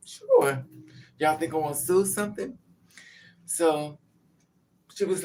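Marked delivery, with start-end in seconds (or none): 0.1-0.7 high, loud, sarcastic "Sure"; high, loud mock-eager "Sure". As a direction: scoff at the offer. Sarcastic reply to walk-out offer.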